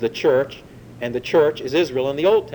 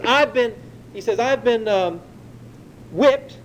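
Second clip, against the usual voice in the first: Paul's boast, pitched higher and slow; mock bragging; 7 semitones higher, slower than usual. Preacher voicing Paul bragging to the Galatians, slow, higher mock boast. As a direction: list the beatings like a reluctant brag. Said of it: "Okay, you wanna hear me brag?".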